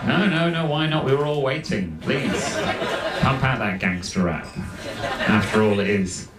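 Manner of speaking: mock welcoming, dripping sarcasm; sarcastic quote. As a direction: sarcastically welcome the man with the boombox. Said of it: "I'm like".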